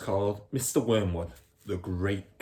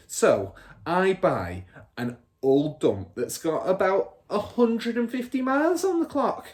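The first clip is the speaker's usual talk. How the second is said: higher, cocky crooked dealer; bragging father; 6 semitones higher, 3 dB louder than usual. Acted. Father bragging to Michael about mileage, cocky. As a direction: preen over the trick.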